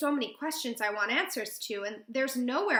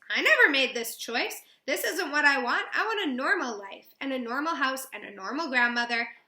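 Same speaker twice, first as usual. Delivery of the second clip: raised, insistent retort; indignant outburst, pitched up at first; heated protest; 3 semitones higher, 6 dB louder than usual. Acted. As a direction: argue back, pushing each demand. Girl argues back at grandmother.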